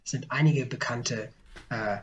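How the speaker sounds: hesitant, trailing stammer with fillers; stotternd. Real, not acted. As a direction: fumble along, restarting and losing the thread. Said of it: "zurecht stottere". (stockend vor sich hin stotternd)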